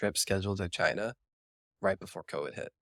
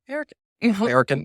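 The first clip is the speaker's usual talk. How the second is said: American voice pitched way up high; 12 semitones higher, 6 dB louder, faster than usual. Shown as a demonstration. Friend showing where American accents sit, in a very high voice. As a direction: send the voice right up high. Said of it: "Americans up here".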